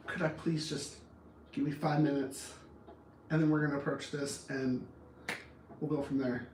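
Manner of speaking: soft, low, careful request; gentle, subdued appeal; quiet plea. Acted. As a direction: ask softly for a little space. Demonstrates polite plea for time.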